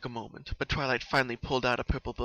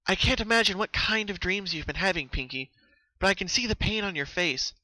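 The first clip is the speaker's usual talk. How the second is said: earnest, caring plea, lightly higher; pleading gently; 7 semitones higher, 4 dB louder than usual. A narrator's reading. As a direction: coax a scared friend to trust you. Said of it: "Twilight pleaded with her friend".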